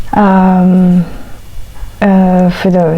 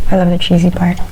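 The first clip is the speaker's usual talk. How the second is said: talking with a mouthful; words round a bite of food; chewing while talking; faster than usual. Real, not acted. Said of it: "Okay, I'll have a bite".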